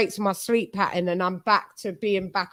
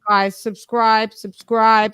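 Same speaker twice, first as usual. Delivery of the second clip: drawn-out, louder plea to subscribe; calling out to subscribe; 6 dB louder, slower than usual. Real, not acted. Host urging viewers on camera to subscribe, loud slow call.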